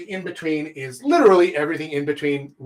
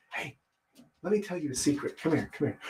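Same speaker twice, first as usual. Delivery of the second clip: softer, leaning in to share a secret; hushed, drawing someone close; soft confiding voice; secretive hush; 8 dB quieter, faster than usual. Shown as a demonstration. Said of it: "So you can use whispers".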